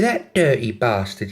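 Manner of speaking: slow put-on London accent; mock indignation in a London accent. London girl cursing her ex, London accent. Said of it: "have a go at the accents".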